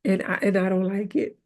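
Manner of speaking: deadpan the psalm in slang; slangy paraphrase. Retold or imitated. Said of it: "He said".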